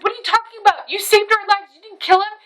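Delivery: high-pitched mimicry of a protesting friend; imitated insistent friend. Friend reassures the guilty speaker, high insistent imitation.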